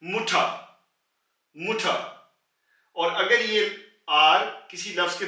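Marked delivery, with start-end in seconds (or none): 0.0-0.4 मुठा ending on an open आ, with no R; silent final R. Shown as a demonstration. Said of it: "बिल्कुल neglect कर देंगे". 1.6-1.9 मुठा ending on an open आ, with no R; silent final R. Shown as a demonstration. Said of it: "बिल्कुल neglect कर देंगे".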